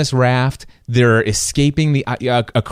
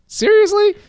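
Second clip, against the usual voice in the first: high squeaky disbelief; incredulous. Retold or imitated. Hearing podcast hosts praise his theory, incredulous. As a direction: jump way up in disbelief. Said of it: "And I'm like".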